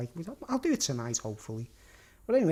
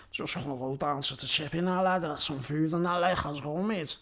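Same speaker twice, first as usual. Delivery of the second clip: exaggerated Scouse accent; thick Scouse. Shown as a demonstration. Showing viewers the difference, thick Scouse. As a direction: put on a broad Scouse accent. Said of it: "total difference with the Scouse accent".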